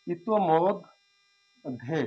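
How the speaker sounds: ইতোমধ্যে drawn out slowly, syllable by syllable; slow clear pronunciation. Shown as a demonstration. Teacher to students: slow careful pronunciation demo. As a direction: spell ইতোমধ্যে out slowly for the class. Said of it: "এটা হচ্ছে সঠিক উচ্চারণ".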